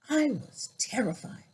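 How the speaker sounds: breathless whisper, barely voiced; whispered fear. Real, not acted. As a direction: let it slip out as a hushed whisper. Recalling childhood racist attack.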